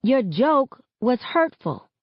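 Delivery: forced calm. A narrator's reading. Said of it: "as calmly as I can".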